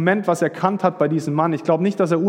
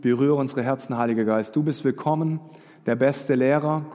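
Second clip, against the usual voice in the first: prayer. Acted. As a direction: pray aloud over the congregation, growing more hushed. Leads the congregation in prayer. (inniges Gebet, zum Ende leiser werdend)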